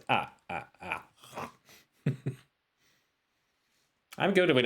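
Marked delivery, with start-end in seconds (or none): 0.1-1.0 mock Dracula counting; Count Dracula impression. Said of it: "sound like Count Dracula".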